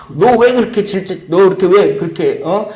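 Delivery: preacher acting a harsh scolding; mock rebuke. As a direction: rebuke him as a coward. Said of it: "이렇게 질책하는 언어".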